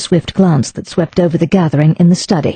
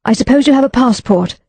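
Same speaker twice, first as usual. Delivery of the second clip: anxiously; 6 semitones higher than usual. Acted. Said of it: "she asked anxiously".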